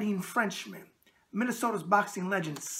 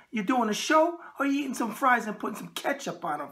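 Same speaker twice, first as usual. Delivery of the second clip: Deb; 4 semitones higher than usual. Retold or imitated. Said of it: "And Deb always says".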